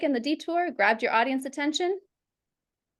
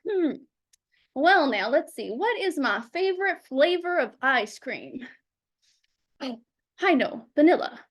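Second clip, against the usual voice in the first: hesitant stalling. Retold or imitated. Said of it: "And they're like".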